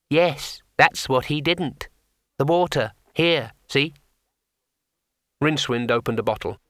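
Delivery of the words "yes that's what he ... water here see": much higher, slow little creature voice; a small painted imp, unhurried; tiny imp. Acted. Imp settling the matter for the wizard, small creature voice.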